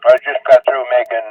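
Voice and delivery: talking with a mouthful; words round a bite of food; mouth full. Real, not acted. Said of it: "excuse me for talking with my mouth full".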